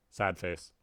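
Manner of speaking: put-on sulky sad face from the cat girl; cat girl sulking. Cat girl sulking after being overruled, pouting. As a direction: pout it out.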